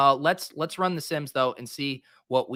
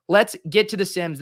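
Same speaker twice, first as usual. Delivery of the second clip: louder, higher rallying call; excited hype; 4 semitones higher, 4 dB louder than usual. Shown as a demonstration. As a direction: pump up the crowd. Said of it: "But yes, let's get to the Sims".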